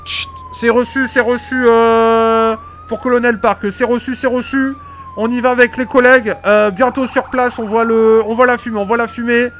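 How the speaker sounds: hammed-up firefighter on the radio; police radio. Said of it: "je vous mets dans l'ambiance".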